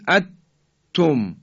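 اتم with the نون merged away; اتم with idgham, no nun; wrong merged version. Shown as a demonstration. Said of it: "حالت ادغامه و صحیح نیست".

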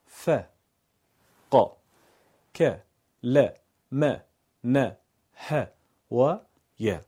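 ا ب ت each light and narrow, mouth flat; thin fatha. Shown as a demonstration. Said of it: "نازک و کم حجمه".

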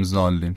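"ضالین" said with a plain z instead of ḍād; wrong z pronunciation. Shown as a demonstration. Teacher warning against the mistake, "ضالین" with plain z. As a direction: say "ضالین" as zaallin, light first consonant. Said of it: "نباید بگیم ضالین".

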